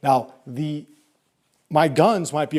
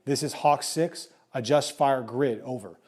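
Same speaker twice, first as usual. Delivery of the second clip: slow, steady radio voice; calm radio call for fire; slower than usual. Shown as a demonstration. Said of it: "I'm gonna be like".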